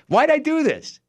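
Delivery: very high-pitched mock wail; acted-out inner panic; panicked regret. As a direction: wail it in comic dismay, pitch soaring. Voicing panicked regret in his head.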